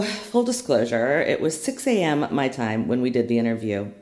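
groggy hungover morning voice; tired, hungover, early morning. Real, not acted. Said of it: "please excuse any of the hungover morning voice".

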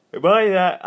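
Embody punched hard the second time; emphatic repeat. Shown as a demonstration. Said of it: "what we need to do is".

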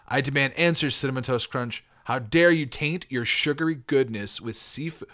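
lightly indignant wrestler; a hint of tough-guy outrage. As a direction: demand it like a promo. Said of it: "go with a tough voice".

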